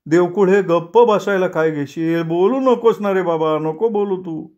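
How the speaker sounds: high, fretful clerk pleading; scared family man, voice pushed up; Deshpande panicking. Acted. Shivering Deshpande begs. (उंच, घाबरलेला देशपांडे)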